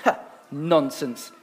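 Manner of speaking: slow, low serpent hiss. A narrator's reading. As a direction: hiss it like a sly snake. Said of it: "hissed the snake".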